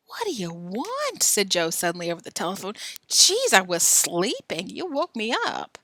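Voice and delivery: a hint of a boy woken up; mild grumpy sleepy friend. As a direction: grumble it half-asleep.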